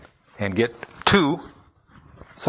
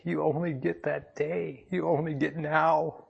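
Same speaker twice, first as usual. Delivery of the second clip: tearful; 3 semitones higher than usual. Real, not acted. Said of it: "I'm sorry to be crying like a baby up here".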